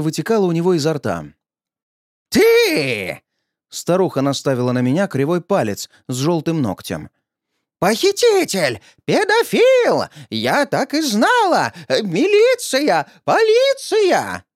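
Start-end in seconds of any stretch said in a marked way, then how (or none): 2.3-3.2 high, loud accusing crone; old woman's shriek. Acted. Old woman shrieks at the narrator, high and shrill. 7.8-14.4 put-on old woman yelling. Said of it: "Орала она не хуже".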